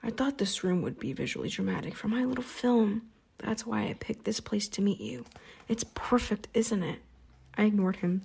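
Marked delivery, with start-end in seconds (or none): 0.0-7.0 a light, pleased villain; friendly menacing vampire. Acted. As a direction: purr it like an admiring host. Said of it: "his voice friendly again".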